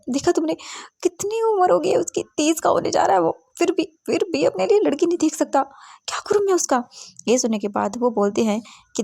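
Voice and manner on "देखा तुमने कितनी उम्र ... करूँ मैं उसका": high-pitched nagging mother, fed up with her son; exasperated mother. Acted. Mother complaining to her husband about their unmarried son, exasperated and high. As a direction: whine about the stubborn son like a fretting mom.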